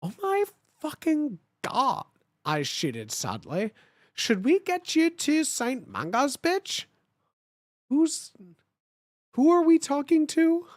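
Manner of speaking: high incredulous outburst; shocked disbelief. Real, not acted. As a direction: react like you can't believe it. Shocked reaction, high pitch.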